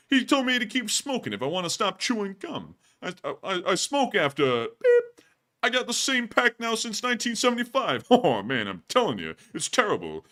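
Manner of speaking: hammed-up exasperated comic whine; lightly voiced nervous comedian moaning; Rodney Dangerfield. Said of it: "he has a Rodney skit".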